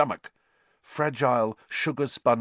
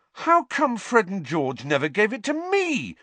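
high, loud indignant protest; outraged; 12 semitones higher, 5 dB louder than usual. A narrator's reading. Ron indignant his brothers kept the map, outraged. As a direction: complain like a wronged younger brother.

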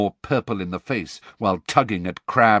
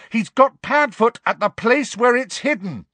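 much higher, louder urgent yell; desperate shout; 14 semitones higher, 6 dB louder than usual. A narrator's reading. Harry yells the warning at the leaving Snape. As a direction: make him hear before he leaves.

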